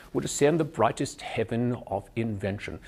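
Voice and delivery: standard English verse, upright rectangular mouth shape; standard English accent. Shown as a demonstration. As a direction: keep the open upper-class English shape through the line. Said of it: "I keep that shape".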